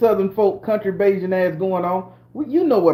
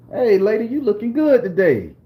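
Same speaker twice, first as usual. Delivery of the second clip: smooth greeting; 3 semitones higher than usual. Shown as a demonstration. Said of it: "Don't that sound a hell of a lot better".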